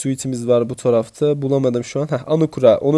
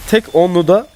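excited; 5 semitones higher than usual. Retold or imitated. Happy about a lucky crate opening.

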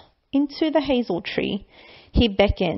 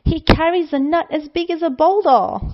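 louder, rising fear; growing alarm; 4 semitones higher, 4 dB louder than usual. Acted. Child seeing the huge shadow, mounting fear. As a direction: panic building at the shadow.

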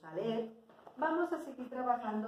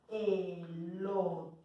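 "elote" stretched out slowly; slow, dictation-style "elote"; drawn out; 3 semitones lower than usual. Shown as a demonstration. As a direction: sound out "elote", lingering on each vowel. Teacher sounds out word while writing.

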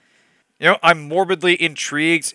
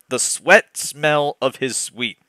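slow repeat; slower than usual. Acted. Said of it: "I almost lost it there".

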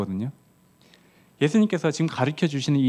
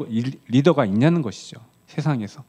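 ordinary talk, nothing marked

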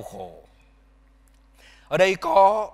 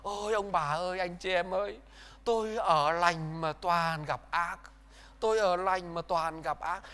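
whining lament; 5 dB quieter than usual. Retold or imitated. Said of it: "luôn luôn than vãn".

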